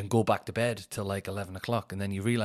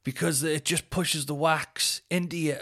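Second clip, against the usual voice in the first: higher, slow mock advice; slow, higher-pitched parody of common advice; mimicked naysayers; 5 semitones higher, slower than usual. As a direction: imitate know-it-all warnings, drawn out. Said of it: "People always say".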